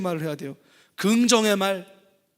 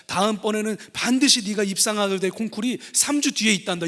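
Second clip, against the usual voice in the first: bright cheerful mother; 5 semitones higher than usual. Retold or imitated. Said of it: "어머니가 밝게 웃으면서".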